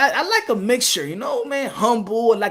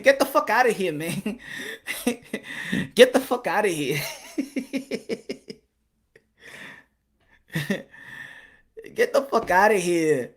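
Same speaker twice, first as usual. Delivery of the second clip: low, laughing get outta here; laughing disbelief; 5 semitones lower, 8 dB quieter than usual. Real, not acted. Laughing at the Canelo story, low and amused.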